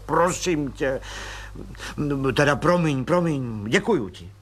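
an eager colonel asking a favour by phone; lightly voiced colonel making a call.

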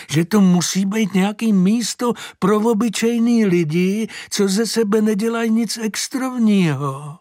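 put-on high, astonished old lady; old woman marvels at the horse, high and amazed; old woman's voice. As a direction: pitch up into a fussy old woman's voice. Mrs Herncová voiced by reader.

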